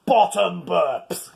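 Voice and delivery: P=A; stress on Bottom. Shown as a demonstration. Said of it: "Important difference there".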